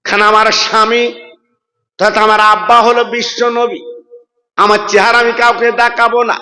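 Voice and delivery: chanted waz narration with long-held line endings; melodic sermon storytelling. Acted. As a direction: intone the story, stretching the last syllables. (সুরেলা ওয়াজের টানা সুরে)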